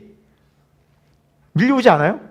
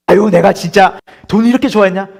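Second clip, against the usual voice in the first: mock self-reproach; 3 semitones higher, 9 dB louder than usual.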